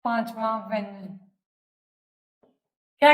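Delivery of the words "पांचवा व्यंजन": slow, softer dictation, falling at the end. Real, not acted. Teacher dictating a term to students, slow dictation. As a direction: dictate slowly and low-key, as if writing along. Dictating the definition while writing it.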